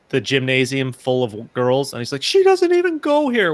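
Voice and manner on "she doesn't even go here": high-pitched mock yell, quoting a movie; high, mimicked movie-line yell; imitated yell. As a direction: call it out much higher, like a heckler. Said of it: "if you hear someone yell".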